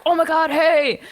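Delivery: imitating a drunk friend's loud hello; drunk excited greeting. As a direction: gush like a happy drunk.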